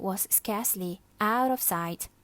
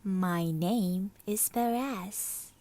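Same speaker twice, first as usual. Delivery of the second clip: warm honey; slower than usual. Acted. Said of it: "His voice was like warm honey".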